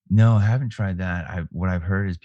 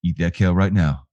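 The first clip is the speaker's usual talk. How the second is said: barked order like a drill sergeant; Marine drill voice. Pretend. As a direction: bark it like a Marine. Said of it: "use my Marine voice to be like".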